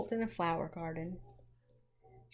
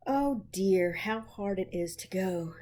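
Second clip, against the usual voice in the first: weary, reluctant sigh; mild sighing complaint; slower than usual. Acted. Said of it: "sighed Meg".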